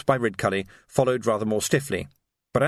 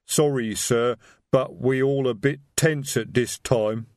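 slow, rumbling troll voice; slower than usual. A narrator's reading. Detritus troll voice.

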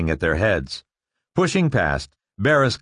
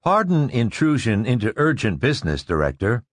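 lightly voiced polite robot; 2 semitones higher than usual. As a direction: deferential machine tone. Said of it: "the robot said".

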